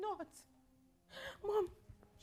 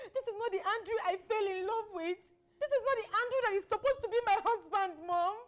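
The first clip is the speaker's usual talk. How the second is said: crying; 5 dB louder than usual. Acted. Daughter breaks down to mother.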